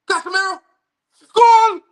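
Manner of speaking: a rising, exploding scream of GOAL; goal celebration. Real, not acted. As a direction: erupt as the ball goes in. Goal scored live on stream.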